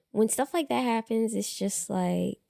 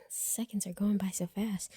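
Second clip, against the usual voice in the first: whispering; 7 dB quieter than usual. Real, not acted. Whispered aside.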